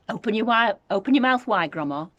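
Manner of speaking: put-on eager boy voice; George coaxing. A narrator's reading. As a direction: urge her to open up.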